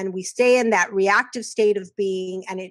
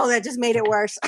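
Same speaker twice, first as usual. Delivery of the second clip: dismayed. Retold or imitated. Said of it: "And you go".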